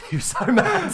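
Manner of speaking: laughing through the words. Real, not acted. Laughing while telling.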